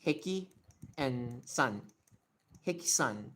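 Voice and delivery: Heki and San as separate, even Japanese syllables; Japanese reading. Shown as a demonstration. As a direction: say "HEH-kee", then "sahn", with a plain S. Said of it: "in Japanese ... you would say".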